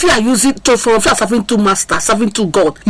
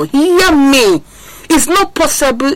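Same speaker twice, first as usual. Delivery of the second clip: emphatic preaching call; 6 semitones higher, slower than usual. Real, not acted. Preacher calls out.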